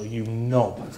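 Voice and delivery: knob said through a chuckle; cheeky jab, laughing; laughing insult. Retold or imitated. Insulting Prime Minister, laughing.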